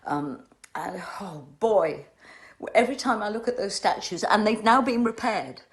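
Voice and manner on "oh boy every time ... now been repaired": louder, rushed, welling up; pushing through rising emotion; emotional. Real, not acted. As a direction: voice swelling with feeling. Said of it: "I'm sorry I got emotional".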